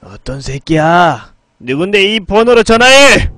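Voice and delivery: slow demand building to a high, loud shout; angry phone demand. A narrator's reading. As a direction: curse the caller, stretching and rising into a yell. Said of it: "중저음의 여성의 목소리가 들렸다". (느리게 시작해 화내며 고함치듯)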